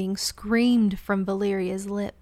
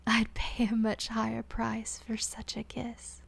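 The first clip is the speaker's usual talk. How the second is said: soft whisper; 5 dB quieter than usual. Acted. Injured Malene, whispering.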